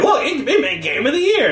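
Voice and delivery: high-pitched, amused mock boast; mock announcement. Gamer mocking the Game of the Year disc, high-pitched mock boast. Mimics a pleased game box.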